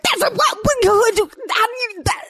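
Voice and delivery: high, incredulous questioning; a mother stunned by her son's word choice; baffled disbelief. Retold or imitated. Mother to her son, amazed he knows that word, high incredulous.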